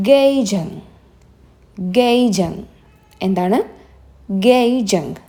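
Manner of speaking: ഗെയ്ജങ് said clearly with a falling end; model pronunciation. Shown as a demonstration. Teacher modelling ഗെയ്ജങ് for the class, clear and falling. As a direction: say ഗെയ്ജങ് the way students should copy it. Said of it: "ഇത് നിങ്ങളൊന്ന് വായിച്ചു നോക്കിയേ".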